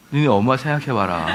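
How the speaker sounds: low tear-jerking preacher, lightly acted; emotional retreat preacher. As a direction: lightly imitate a preacher coaxing children to cry. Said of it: "그 감성을 자극하잖아요". (낮게 감성을 자극하는 수련회 전도사 흉내)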